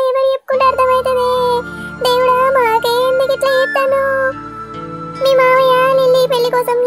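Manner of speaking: singsong wailing lament; keen for the lost one, stretching line endings; ఏడుపు. Acted. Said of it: "మీ ఏడుపులు road మీద దాకా వినబడతానాయి". (శోకాలు పెడుతూ ఏడుపు)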